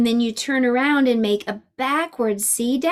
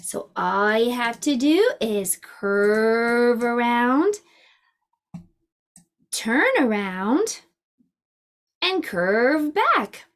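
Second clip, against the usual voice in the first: slow guided instruction; slower than usual. Shown as a demonstration. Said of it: "Let's practice writing".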